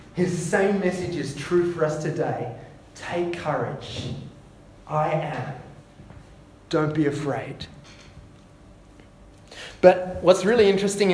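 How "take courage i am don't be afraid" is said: soft reassurance. Acted. Quoted Jesus, softer slow.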